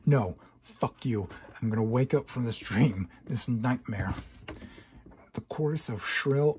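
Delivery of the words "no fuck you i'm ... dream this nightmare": defiant shout. Acted. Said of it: "your defiant shout".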